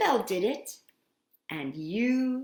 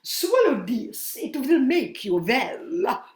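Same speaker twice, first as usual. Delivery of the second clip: doctor voice; 3 semitones higher, 4 dB louder than usual. Acted. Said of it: "The doctor said unto Isabel".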